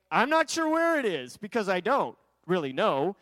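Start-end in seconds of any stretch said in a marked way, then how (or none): 0.1-1.4 high-pitched feigned cluelessness; faking innocence. Acted. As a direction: play innocent, voice lifted high. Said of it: "fake it like".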